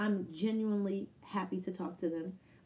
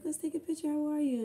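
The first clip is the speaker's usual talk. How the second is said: imitating her; 9 semitones higher, 4 dB louder than usual. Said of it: "she's like".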